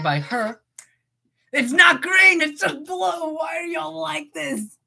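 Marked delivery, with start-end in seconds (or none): 1.5-4.8 high, loud exasperated yelling; exasperated shout. Real, not acted. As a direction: yell it at chat in frustration.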